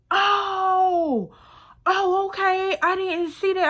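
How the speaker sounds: high, sheepish oh, okay; backing down once proven wrong; caught-out surprise. Retold or imitated. Friend to the speaker after misreading the ticket, sheepishly backpedaling.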